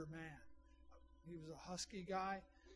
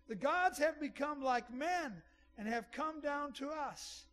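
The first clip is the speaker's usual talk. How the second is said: high, loud, slow proclamation; raised voice; 6 semitones higher, 5 dB louder than usual. Acted. Crowd hailing the apostles as gods, raised voice. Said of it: "they raised their voice".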